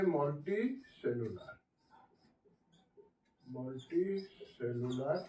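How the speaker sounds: stretched out softly as it's written; teacher spells the heading for the class, slowly; slow dictation. Shown as a demonstration. Teacher dictates slowly. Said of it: "teacher writing heading".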